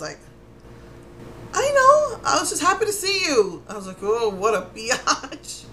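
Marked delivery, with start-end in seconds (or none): 1.5-3.6 high pleading cheer. Retold or imitated. Replying to the busy helper. 4.0-5.6 annoyed jab. Retold or imitated. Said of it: "I was so mad".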